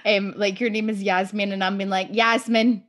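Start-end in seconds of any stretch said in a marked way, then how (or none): 2.1-2.8 Scottish accent. Shown as a demonstration. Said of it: "so Scottish the whole time".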